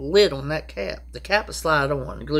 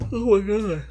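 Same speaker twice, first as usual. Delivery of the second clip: exasperated; 8 semitones higher than usual. Real, not acted. Exasperated aside mid-sentence.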